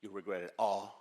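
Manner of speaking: low, soft, with long pauses; hushed, earnest closing; solemn appeal. Real, not acted. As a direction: let the closing warning sink in quietly. Solemn close of motivational talk.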